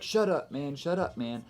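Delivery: echoed line dying away; echo demo. Shown as a demonstration. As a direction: trail it off like an echo. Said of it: "the echo would be like".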